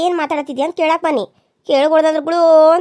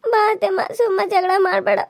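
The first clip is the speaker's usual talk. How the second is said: tearful plea; 4 semitones higher than usual. Acted. Tearful plea to mother-in-law.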